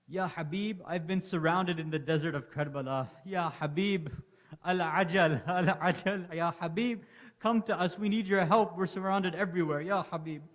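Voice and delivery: loud, high desperate calling; urgent plea. Acted. Hussein's letter begging Habib to come, urgent. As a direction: cry out for help across the desert.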